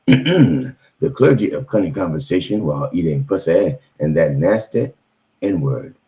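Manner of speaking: booming mock sermon roll call of titles; mock preacher. Comic reverend introducing himself to the congregation, preaching grandly. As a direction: intone each title like a revival preacher.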